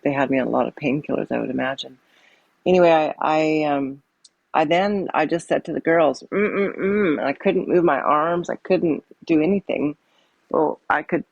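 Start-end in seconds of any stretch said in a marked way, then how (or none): 6.3-7.2 imitated wordless closed-mouth hums, higher; intubated mumble. Intubated mother signalling to the girls, imitated muffled hums. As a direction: mimic trying to talk with lips shut. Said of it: "make a "mm, mm, mm" sound".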